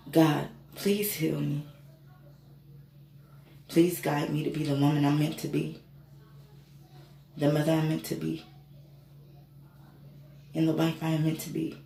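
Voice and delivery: earnest prayer. Retold or imitated. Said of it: "I say".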